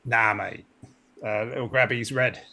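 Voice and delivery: wobbly Cockney, drifting toward Australian; attempted Cockney accent. Crewman owns up to an ensign about the spiders, attempted Cockney accent. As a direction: have a rough go at Cockney. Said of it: "can you do the Cockney accent".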